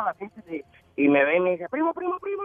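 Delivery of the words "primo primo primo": retold calling out. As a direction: imitate someone calling over a cousin. Calling out in retold party story. (llamando al primo en voz aguda)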